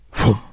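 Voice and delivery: short whooshing explosion noise; imitated blast whoosh. Narrator illustrates an A-bomb going off, imitated whoosh. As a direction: mimic a bomb blast with the mouth. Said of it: "A bomb goes off".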